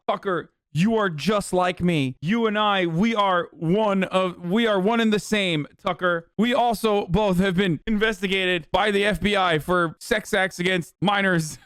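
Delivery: high, deliberate mock earnestness; mocking impression of guest. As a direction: parody a guest insisting on kinship with his host. Mocking the guest's comparison to host.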